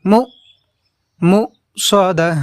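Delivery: মুকসাদা with a short jolted মু; clipped mu. Shown as a demonstration. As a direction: jolt the মু briefly. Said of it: "কিছুক্ষণ শর্টভাবে পড়ব এইভাবে". (মু-তে ঝটকা দিয়ে ছোট করে)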